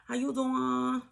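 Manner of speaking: high and slow, laughing through it; laughing high greeting. Pretend. Spiritual advisor greeting her viewers, laughing and high.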